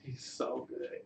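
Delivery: whispered through real tears, nearly breaking; tearful whisper. Real, not acted. Derek, crying on air, whispering his thanks to God. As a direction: barely get the words out, overcome. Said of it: "I'm sorry, I'm crying".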